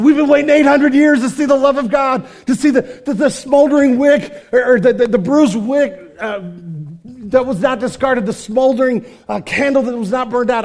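loud, high, impassioned proclamation; full-force sermon cry; fervent preaching. Acted. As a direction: preach it with rising fire. Preacher voices Isaiah's hope.

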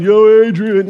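loud mock movie-hero call; Rocky. Preacher joking about Peter's new nickname, Rocky impression. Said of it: "he's going around going".

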